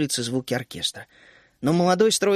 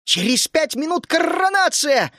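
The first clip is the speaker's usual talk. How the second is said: high, loud panicked cry; frantic yell; 11 semitones higher, 4 dB louder, slower than usual. A narrator's reading. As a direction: shout in a flustered panic. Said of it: "заполошно заорала Тереза".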